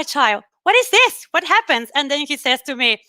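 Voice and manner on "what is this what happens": higher-pitched mock alarm, pitch jumping up on the question; retold startled question. Mother asking her child about the coffee, retold startled question. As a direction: ask as if startled, acting it out.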